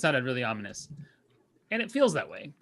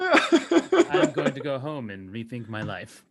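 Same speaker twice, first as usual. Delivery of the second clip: dazed Star Wars bystander; 6 dB louder, much slower than usual. Retold or imitated. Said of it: "Star Wars quote".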